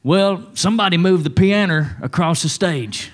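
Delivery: mock petty complaint. Mocking petty church member.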